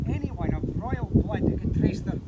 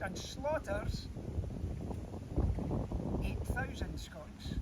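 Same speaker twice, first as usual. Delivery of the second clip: hushed, slow; 3 semitones lower, 10 dB quieter, slower than usual. Acted. Grim drop before repeating number.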